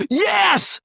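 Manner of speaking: very high, drawn-out cry of relief; a triumphant high-pitched "yes"; elated yes. Retold or imitated. Acting out joy at being freed from accent worries, elated cry. Acts out delighted realisation about accents.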